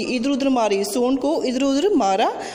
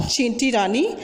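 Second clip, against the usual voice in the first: pleading elephant; 4 semitones higher than usual. Acted. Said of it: "हाथी गिर पड़ा और बोला".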